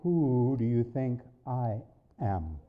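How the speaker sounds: voice of God. Retold or imitated. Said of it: "and the voice said".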